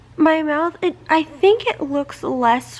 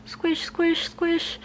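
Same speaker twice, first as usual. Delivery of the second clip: squishy noise; 4 semitones higher, 7 dB quieter, much slower than usual. Shown as a demonstration. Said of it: "hearing things popping in my cheeks".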